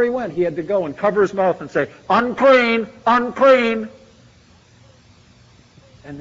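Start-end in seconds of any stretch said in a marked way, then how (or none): 2.1-3.9 louder mock call of a leper; leper's warning call. Leper warning people away, called out louder. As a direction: cry it out to warn people off.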